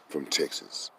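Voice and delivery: quiet, put-on white Texan voice for "from Texas"; mock white Texan. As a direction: lightly imitate a white man saying "from Texas". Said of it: "trying to sound like a white man".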